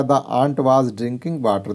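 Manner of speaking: reads the English sentence very slowly, word by word; slow clear reading. Shown as a demonstration. Teacher reading an example sentence to pupils, very slow. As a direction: spell it out slowly for the class. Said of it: "तो हमने लिखा".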